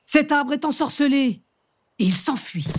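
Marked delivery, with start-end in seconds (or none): 0.1-1.4 exclaiming. Acted. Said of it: "s'écrie le bûcheron".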